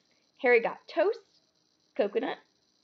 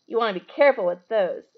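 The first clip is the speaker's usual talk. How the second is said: warning; 6 dB louder than usual. Acted. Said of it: "Ron warned Harry".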